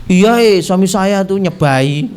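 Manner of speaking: imitating a sheepish confession; mock bashful admission from a caught-out wife; embarrassed wife. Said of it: "terus dia malu itu".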